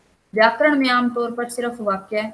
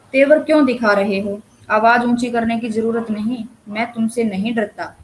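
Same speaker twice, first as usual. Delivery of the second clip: louder, standing up to an angry man; defiant retort; 5 dB louder than usual. Acted. Listener snaps back at an angry man, louder. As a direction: push back hard against his anger. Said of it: "श्रोता दूसरे आदमी के क्रोध को पहचानता है".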